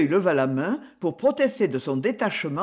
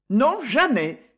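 slow, gloating triumph; triumphant; 5 semitones higher, 3 dB louder, slower than usual. Acted. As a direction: savour the win, slowly. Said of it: "triompha madame de Praz". (triomphe lent et savouré)

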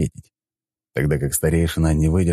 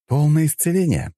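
triumphant snarl; 11 semitones higher than usual. A narrator's reading. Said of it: "оскалился я".

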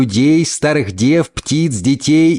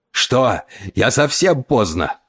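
hoarse sobbing cry; 2 semitones lower, slower than usual. A narrator's reading. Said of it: "хрипло всхлипывая, закричал он".

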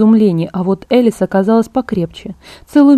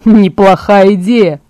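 slow, pleased and keen; light up at the idea of a fight; perking up gladly; 5 dB louder, slower than usual. Acted. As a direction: Emmett liking the plan to kill. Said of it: "радостно встрепенулся Эммет".

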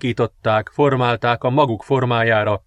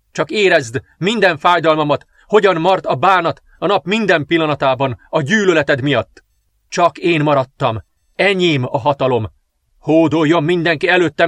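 higher, proud gloating queen; triumphant dark princess; 4 semitones higher, 3 dB louder than usual. Acted. Princess proclaims her rule over the dead king, gloating. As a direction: claim the throne with cold triumph.

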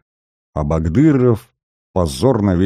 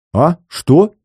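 sharp, much higher and louder startled query; perking up curious; 10 semitones higher, 5 dB louder than usual. A narrator's reading. Curious soldier suddenly perks up at the gossip. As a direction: snap to attention, nosy. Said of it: "оживился любопытный Бурмин".

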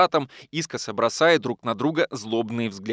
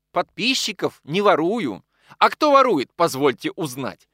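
heated retort; 5 semitones higher, 5 dB louder than usual. Acted. Ссора двух редакторов.

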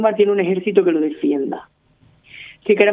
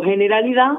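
Andalusian pronunciation. Shown as a demonstration. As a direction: say generalidad the Andalusian way, heneɾaliða. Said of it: "castellano mal hablado". (generalidad con acento andaluz, sin la d final)

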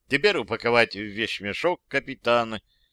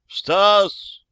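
calling higher and louder; 8 semitones higher, 6 dB louder than usual. Acted. Calling Stas once more, higher and louder. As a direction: call again, more urgently.

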